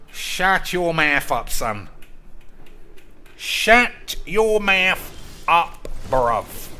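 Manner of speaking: loud, drawn-out mock outburst; mock angry telling-off. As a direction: stretch each word into a slow, hammed-up shout. Mock telling-off of American accents.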